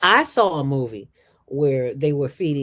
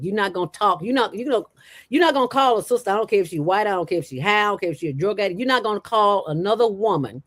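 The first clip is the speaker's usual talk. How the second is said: retold scolding; 5 semitones higher, faster than usual. Retold scolding of man who insulted woman.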